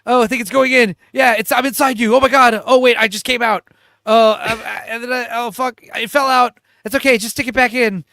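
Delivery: high, loud hammed-up lovers; overexcited mimicry, voice pushed up; mock sexual excitement. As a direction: act out a frantic comic love scene. Retold comic sex scene climax.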